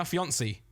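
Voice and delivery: "fiancée" in an anglicised British way; British pronunciation. Shown as a demonstration. Showing how to say it in British, anglicised "fiancée". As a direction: say "fiancée" with English sounds, no French. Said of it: "I like saying it in British".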